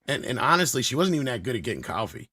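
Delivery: lightly voiced old-school producer, brash and dismissive; Frank the producer. Frank trashing his old muse to the hosts, brash. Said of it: "Frank, she was nothing more than your muse".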